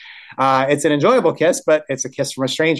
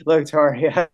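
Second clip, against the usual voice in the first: playful acted amusement, pitched higher; laughing; 4 semitones higher than usual. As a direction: tease lightly through a laugh. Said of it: "And she laughs, and she's like".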